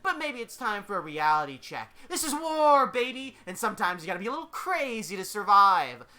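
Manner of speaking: loud, high battle-crazed swagger; big, punchy character shout; manic Deadpool, hyped. Acted. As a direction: proclaim it like an unhinged showman.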